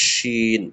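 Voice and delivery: শিন with warm air over the tongue; full breathy শিন; Arabic sheen demo. Shown as a demonstration. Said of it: "গরম হাওয়া বের হবে একদম জিভের উপর থেকে".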